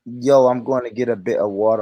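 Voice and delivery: British accent attempt. American friend copying the streamer's line, attempted British accent. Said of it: "Bruv, just say, say, say this".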